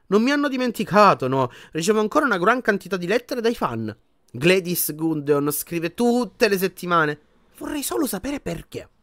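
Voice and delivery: a pleased star who cannot see why; vain celebrity wizard. Acted. Lockhart voiced in the story. (voce più acuta da divo vanitoso)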